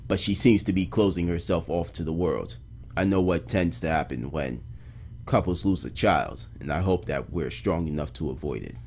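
low, measured journal narration; detective narration. Acted. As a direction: read it like a detective's somber case journal. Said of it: "detective narration, narration voice".

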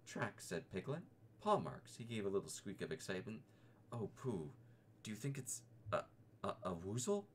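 a small piglet thrilled by paw marks; excited little Piglet. Acted.

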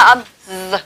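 long buzzing "z" sound; "âm z" with voiced z. Shown as a demonstration. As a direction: hold the z in "âm z" as a buzz. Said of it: "được gọi là âm hữu thanh".

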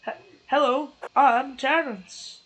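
character voice. Pretend. Character voice again.

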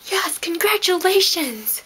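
slow, sarcastic unvoiced whisper; mock cheer under the breath. Mocking the DMV letter.

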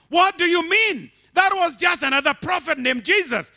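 high, loud shocked cry; Satan screaming. Acted. Preacher voicing Satan screaming at God in shock. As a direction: scream it in disbelief. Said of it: "Satan sc-, screamed".

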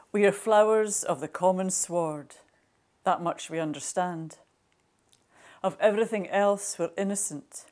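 deliberate, lilting poetry delivery; poem reading. Acted. Poet reads own poem as the daisies speaking, measured recitation. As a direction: read it as verse, pausing between phrases.

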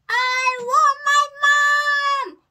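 high, held, almost sung wail; hoot. A narrator's reading. Little princess during a game of boats, high sustained hoot. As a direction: hoot it loud on one long high note. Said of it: "hooted the little princess".

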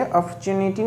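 अपॉर्चुनिटी as "ap-chu-ni-ti", r dropped, ch kept; rejected pronunciation. Shown as a demonstration. Teacher rejecting a second reading, अपॉर्चुनिटी as "ap-chuniti". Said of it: "अपॉर्चुनिटी नहीं पढ़ेंगे".

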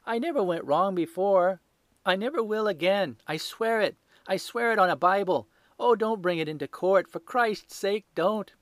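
high, loud desperate shriek; shrieking plea. A narrator's reading. Thief on his knees begging Holmes, high shriek. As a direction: beg for your life at the top of your voice. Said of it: "he shrieked".

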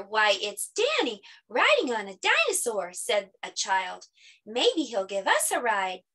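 measured storybook narration with lifted quotes; children's story reading. Acted. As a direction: read a picture book aloud to children.

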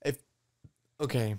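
talking through hiccups; words broken by hiccups. Real, not acted. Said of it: "I got the hiccups and shit right now".

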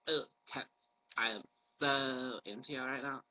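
exaggerated flamboyant gay-guy voice, lightly put on; mock a gushing, flamboyant man; hammed-up flamboyant swoon. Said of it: "a really, really flamboyant gay guy".

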